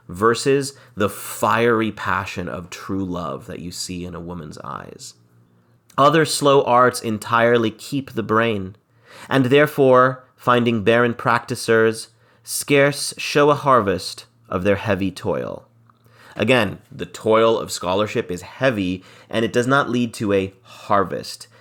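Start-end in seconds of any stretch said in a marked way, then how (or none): 6.0-15.6 verse reading. Acted. Teacher reading Shakespeare's lines to the class, lightly dramatic. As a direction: read the verse line with a touch of drama.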